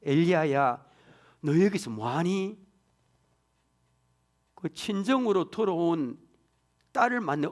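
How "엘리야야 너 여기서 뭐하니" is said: slow, gentle call, like a mother; warm. Shown as a demonstration. A mother greeting her returning daughter, slow and tender. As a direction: ask it like a mother welcoming her daughter home. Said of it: "따뜻하게 들립니다".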